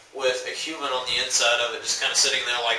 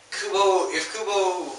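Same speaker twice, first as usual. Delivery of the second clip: laughing through the name, higher; 6 semitones higher, slower than usual. Real, not acted. Fan chuckling at what the author might do, laughing. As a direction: giggle it out, amused.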